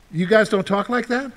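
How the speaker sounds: usual speaking voice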